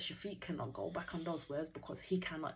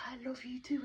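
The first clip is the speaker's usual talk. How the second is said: imitated shout back; 9 semitones higher than usual. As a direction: act out calling back in a high voice. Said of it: "she shouted back".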